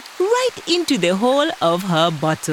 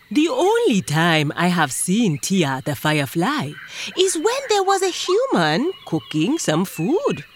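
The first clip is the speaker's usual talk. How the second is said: hawk voice. Acted. Hawk speaks in story.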